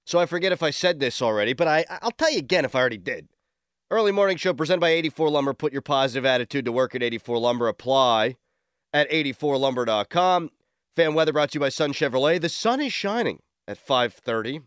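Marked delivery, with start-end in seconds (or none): 3.9-14.6 brisk sponsor read, fast. Acted. Radio host reading sponsor copy to listeners, ad read. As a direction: rattle through the ad copy.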